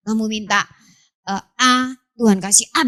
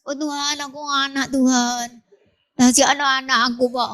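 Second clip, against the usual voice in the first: put-on praying old man. Old man praying in Bible story.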